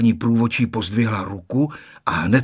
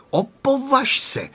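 threatening; 13 semitones higher, slower than usual. A narrator's reading. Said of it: "hrozila mu maminka".

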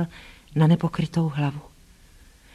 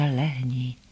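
low, soft, hushed order; quiet command; 6 semitones lower, 5 dB quieter than usual. A narrator's reading. Narrator telling the excited dog Hektor to lie down, quietly. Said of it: "řekla jsem mu tiše".

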